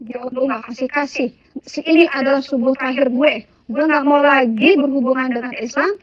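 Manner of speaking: retold tirade, insistent repeated refusals; rough, rude outburst. Retelling telling Allah they quit worship, rough and annoyed. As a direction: push each refusal out with rough irritation. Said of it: "saya ngomong kasar".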